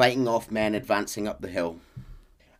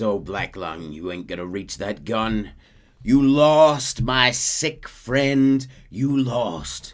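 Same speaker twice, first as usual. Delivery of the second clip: slow, louder sneer stretched out; gloating Micah again; 3 semitones higher, 8 dB louder, much slower than usual. Retold or imitated. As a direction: linger on lost. Micah's line repeated.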